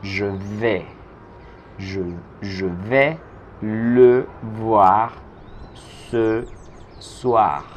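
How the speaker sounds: phrase by phrase with pauses; slow build-up. Shown as a demonstration. Teacher to Spanish-speaking students, slow phrase-by-phrase delivery. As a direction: build the sentence piece by piece for learners. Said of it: "teacher builds the sentence slowly".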